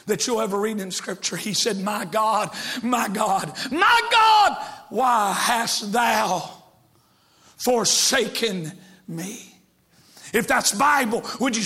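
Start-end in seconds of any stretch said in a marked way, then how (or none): 1.8-9.5 anguished cry. Acted. Preacher voicing Jesus crying out from the cross in anguish. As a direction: cry out in anguish, then fade.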